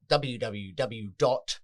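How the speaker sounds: slow and careful, like dictating; slow dictation. Real, not acted. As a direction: spell out the web address very slowly. Spelling out the website slowly.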